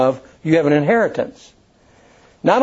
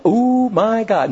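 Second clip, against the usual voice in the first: startled gasp; 7 semitones higher, much slower than usual. Retold or imitated. Zachary startled by angel.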